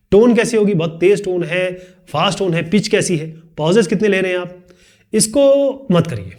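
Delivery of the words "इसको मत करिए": slower, gentle इसको मत करिए with a falling end; slow, drawn out. Shown as a demonstration. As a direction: draw the words out calmly. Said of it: "दो अलग तरीके को हो गया ना बोलने का तरीका". (धीरे, खींचकर)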